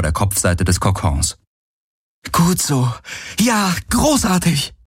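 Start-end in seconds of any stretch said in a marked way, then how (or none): 2.3-4.7 high, drawn-out approval; delighted praise. A narrator's reading. Kirai praises Uru for lying down, delighted. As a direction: praise with relief, stretching the last word.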